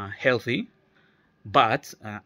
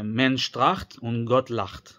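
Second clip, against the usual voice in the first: slow Yiddish saying; much slower than usual. Shown as a demonstration. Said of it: "they say".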